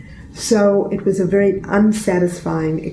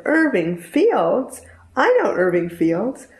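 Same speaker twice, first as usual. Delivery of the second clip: slow, high rising disbelief on Irving; surprised recognition; 4 semitones higher, slower than usual. Retold or imitated. Older man surprised to hear her father's name, slow rising amazement.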